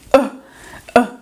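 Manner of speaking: "ã" like the grunt from a gut punch; short, dull "ã", as if hit in the stomach; punched-stomach schwa. Shown as a demonstration. Teacher imitating someone punched in the stomach, grunted "ã". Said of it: "quando você leva um soco no estômago".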